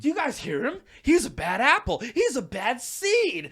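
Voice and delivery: high, loud, whiny complaint to the crowd; high whining customer, slowed down; tattling customer. Retold or imitated. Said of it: "that's when he's like".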